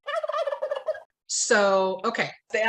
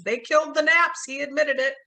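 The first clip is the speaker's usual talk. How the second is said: retold accusation; 5 semitones higher, 4 dB louder than usual. Voicing Ray's accusation to police.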